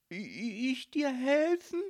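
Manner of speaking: startled stutter rising to a high question; high, loud, flustered. A narrator's reading. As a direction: trip on the first word in disbelief. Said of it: "stotterte Marie".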